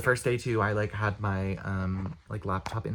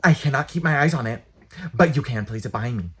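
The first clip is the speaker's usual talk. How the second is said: curt librarian quote; 3 semitones higher, 7 dB louder than usual. Retold or imitated. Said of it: "She was like".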